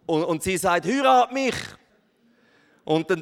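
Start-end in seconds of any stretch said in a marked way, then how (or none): 0.9-1.6 high, loud playful woman; coy woman voice. Pretend. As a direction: ask it coyly.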